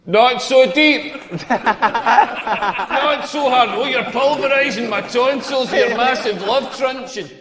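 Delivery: slow, drawn-out pretend overwhelmed moans; mock reassuring lover. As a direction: imitate an overwhelmed lover, hammed up. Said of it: "I wanna hear more reassuring stuff".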